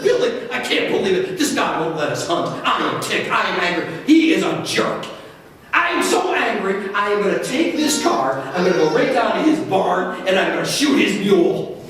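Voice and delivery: mild mock-angry rant; pretend anger. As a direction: play at being ticked off, without much heat. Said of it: "pretend I'm angry at this guy".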